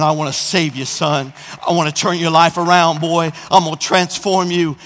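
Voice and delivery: the Spirit drawing a son home, lightly voiced; gentle calling voice. Holy Spirit speaking to him.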